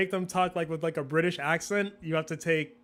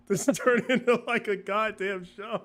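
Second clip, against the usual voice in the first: mock exasperation; 5 semitones higher than usual. Mock outrage at growing workload.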